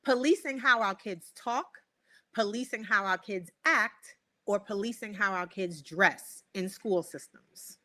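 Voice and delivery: spaced-out reading of the options; slow, deliberate. Real, not acted. Host giving guest three options, slow and deliberate. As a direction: lay out each option slowly, pausing between them. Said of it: "I'm gonna say them slowly".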